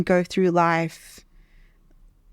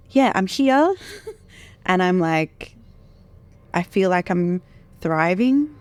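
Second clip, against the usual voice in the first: crying. Real, not acted. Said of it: "Sorry, I'm crying".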